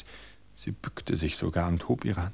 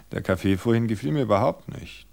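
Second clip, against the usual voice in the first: complaining husband; 3 semitones higher, 4 dB louder than usual. Acted. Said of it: "klagte Gerald".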